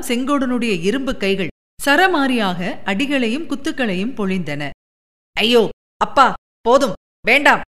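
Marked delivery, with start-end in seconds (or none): 5.3-7.6 mild mock howl of pain; cry for mercy. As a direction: beg him to stop the beating. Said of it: "எஸ்ராஜின் அபய குரல்கள்".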